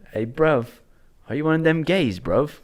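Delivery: a hammed-up New Zealand lad calling out; New Zealand-ish accent. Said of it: "It's New Zealand-ish".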